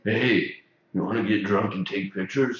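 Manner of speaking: low, soft come-on; mock pickup line. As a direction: drop the voice for a casual proposition. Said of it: "my pickup line".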